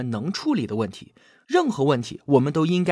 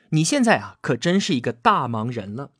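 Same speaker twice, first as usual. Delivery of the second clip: lightly mocking colleague, snide dig; snide sarcasm; 2 semitones lower than usual. Colleague needles a busy coworker, mildly sarcastic. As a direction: imitate a sniping coworker without overdoing it. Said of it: "他阴阳怪气的就来了一句".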